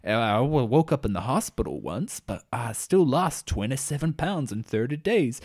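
mock-intense pitch delivered in a creepy, measured way. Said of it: "in a real intense voice".

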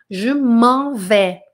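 "Je m'en vais" drawn out, nasal "m'en"; slow French model. Shown as a demonstration. Teacher models the expression slowly for the class. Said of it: "Vamos treinar a pronúncia".

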